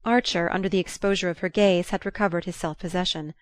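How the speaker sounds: usual speaking voice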